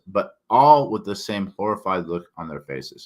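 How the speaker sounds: tripping over a swollen tongue; with a sore tongue. Real, not acted. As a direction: speak around a sore tongue. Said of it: "Sorry. That's my tongue".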